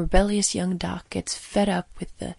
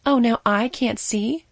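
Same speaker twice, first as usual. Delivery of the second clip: slow, sarcastic snap, louder; snapping nurse; 4 semitones higher, 7 dB louder, slower than usual. Acted. Offended nurse snapping at the young doctor, sarcastic. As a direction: bite back at the doctor, drawing it out. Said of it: "the nurse snapped".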